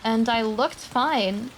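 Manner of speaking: a lightly held, measured horror-story reading. Acted. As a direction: read it like a creepy post to chat. Reads reddit horror story aloud.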